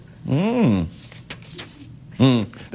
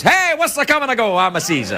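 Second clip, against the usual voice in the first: casual Caesar; 5 semitones higher than usual. Retold or imitated. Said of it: "guy goes".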